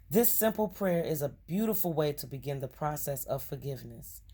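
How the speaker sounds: measured reading with lightly punched key words; card reading aloud. Acted. Reading a forgiveness card to viewers, measured read-aloud. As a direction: read it out as earnest guidance.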